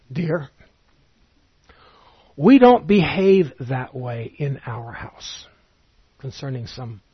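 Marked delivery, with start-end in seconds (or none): 0.1-5.5 mother's gentle reproof. Retold or imitated. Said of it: "my mother would sometimes say to me".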